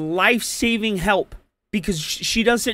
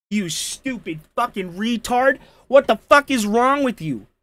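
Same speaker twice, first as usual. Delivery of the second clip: livid, furious, raging outburst; 3 semitones higher than usual. Reacting to a woman calling the police for help, furious ranting. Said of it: "I'm really fucking mad now".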